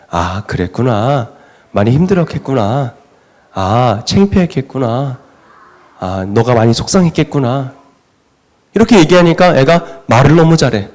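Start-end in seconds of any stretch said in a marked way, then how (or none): 0.1-7.7 gentle soothing mother. Retold or imitated. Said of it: "엄마가 이렇게 얘기하는 거예요".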